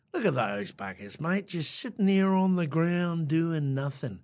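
lightly imitated Aussie cabbie grumble; dismissive remark in an Australian accent; Australian cab driver. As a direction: retell it as an Australian taxi driver. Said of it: "Typical Australian, um, cab driver".

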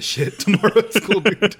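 put-on excited kid. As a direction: hype yourself up like a kid who found swear words.

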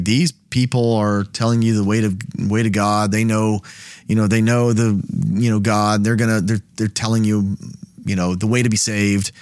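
casual half-to-yourself mumble; muttering. Shown as a demonstration. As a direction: mumble it offhand as you wander about. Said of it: "and just kind of muttering that".

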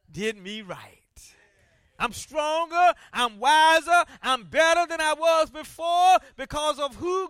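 preacher voicing a believer's triumphant reply; voice of the meek spirit. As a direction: declare it like a testimony.

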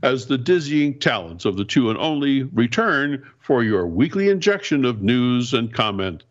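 grand ringmaster opening. Acted. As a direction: announce it like a circus ringmaster. Mock grand show opening.

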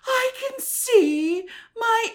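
put-on high, slow little kid voice; imitating her child self. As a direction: squeal it like a proud five-year-old.

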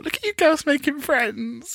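sing-song high, slow coo. Retold or imitated. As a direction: coo at them like proud mum. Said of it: "I thought".

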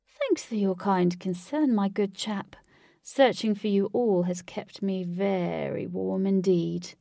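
slow, mock-courteous villain, lightly voiced; a hint of suave villain, words stretched out; theatrical villain.

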